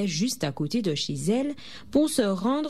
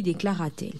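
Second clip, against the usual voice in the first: ordinary delivery, nothing marked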